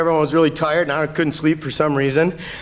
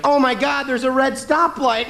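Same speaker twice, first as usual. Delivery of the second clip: exaggerated panic; 9 semitones higher, 3 dB louder than usual. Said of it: "He exaggerated to".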